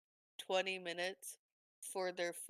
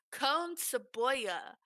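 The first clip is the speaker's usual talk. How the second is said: Gringo Spanish; 5 semitones higher, 7 dB louder, slower than usual. Retold or imitated. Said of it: "my Spanglish is so Gringo".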